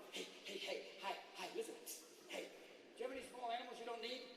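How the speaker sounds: jittery coyote at the door; coyote on crack. Acted. Coyote begging small animals at your house, jittery voice. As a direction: wheedle like a twitchy addict. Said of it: "which are like dogs on crack".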